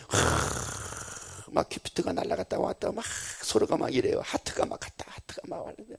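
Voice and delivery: breathy whispered aside about hearts flying; hushed whisper. Acted. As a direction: drop to a whisper, teasing the lovestruck. Describing lovers, hushed aside. (속삭이듯 놀리는 말투)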